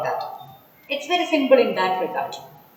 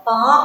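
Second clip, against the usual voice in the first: "par" hit louder as the beat; stressed syllable; 7 dB louder than usual. Shown as a demonstration. Teacher scanning a poem line, "par" stressed. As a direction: punch "par" on its own. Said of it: "is stress because".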